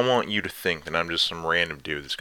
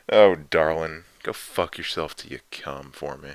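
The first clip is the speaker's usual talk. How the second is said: teasing dom lover; slower than usual. Acted. Dominant lover teasing listener.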